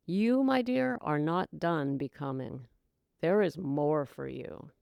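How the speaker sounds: soft, tender reassurance; gentle calling voice. Retold or imitated. Divine discontent gently inviting the listener, soft and tender. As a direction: coax her gently onward. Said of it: "The other says".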